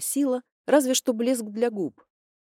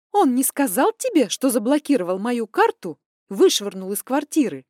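angry hiss; 4 semitones higher, 6 dB louder than usual. Acted. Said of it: "зло прошипела я".

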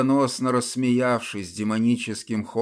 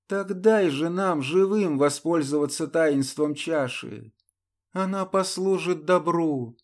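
put-on higher, urgent young woman's plea; pleading heroine; 6 semitones higher than usual. Ludmila begs the templar to let the living use the chalice, higher. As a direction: plead with the dead knight, voice raised high.

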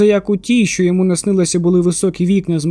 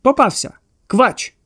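shout; 4 semitones higher, slower than usual. A narrator's reading. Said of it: "крикнувши".

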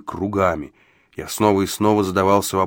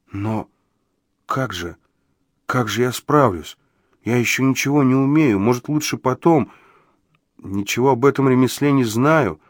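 halting start, then higher anxious protest; hoarse, forced-out; 4 semitones higher than usual. A narrator's reading. Overwhelmed pupil doubts himself, hoarsely forcing out words. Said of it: "сипло выдавил".

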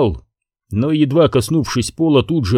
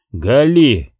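shouting. Acted. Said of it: "закричал он".

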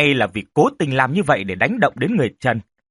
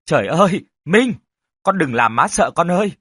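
higher, louder distressed cry, lightly acted; tearful outburst; 3 semitones higher, 3 dB louder than usual. Mother hugging her just-woken son, acted tearful outburst. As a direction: plead with your child in acted distress. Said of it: "bật khóc nức nở".

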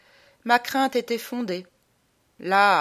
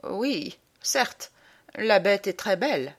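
understated, half-hearted agreement; piteous murmur. Acted. Man praises his fiancée's dog, mildly piteous. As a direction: agree reluctantly, mildly pitiful. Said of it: "murmurai-je piteusement".

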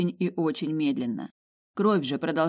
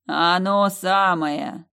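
slow, loud voice of an ancient jewel; slow booming heart; 2 semitones higher, 7 dB louder, much slower than usual. Acted. The Heart of the Fjords answering the heroine, slow loud booming voice. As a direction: speak slowly like a vast living gem.

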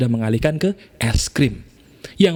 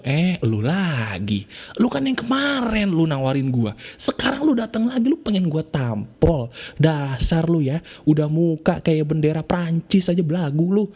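rude customer mocking; 4 semitones higher than usual. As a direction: sneer it like an irritated customer brushing off a salesman. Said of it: "Tiba-tiba bapaknya ngomong".

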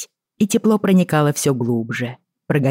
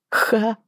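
a short amused snort; snorting laugh; 8 semitones higher than usual. A narrator's reading. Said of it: "фыркнула она".

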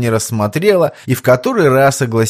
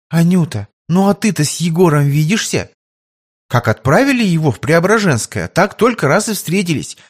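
put-on higher, gentle young lady voice; young tsarevna; 5 semitones higher than usual. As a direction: ask kindly about her beloved. Tsarevna asks about Yegor. (царевна мягко расспрашивает)

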